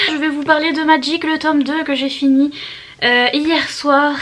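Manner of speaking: breathless after climbing stairs; out of breath. Real, not acted. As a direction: talk while catching your breath. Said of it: "Je suis essoufflée". (essoufflée après l'escalier)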